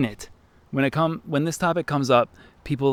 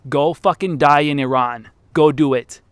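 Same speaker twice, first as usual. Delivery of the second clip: louder, forceful angry command; angry dare; 6 dB louder than usual. Real, not acted. Ranting at older Trump fans about war, angry. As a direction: spit it out as a challenge.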